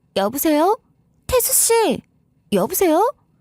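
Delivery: put-on high, puzzled, bewildered young woman's voice. Reading a story, a voice on the phone calls the husband's name: puzzled young woman's voice. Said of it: "의아한 듯 남편의 이름을 부르는 젊은 여자의 목소리".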